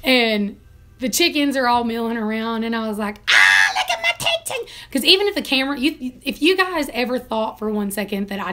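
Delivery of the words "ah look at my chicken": put-on squeaky baby voice cooed at a hen; high cooing baby talk. Cooing up high to her pet chicken. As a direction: coo up high like talking to a pet.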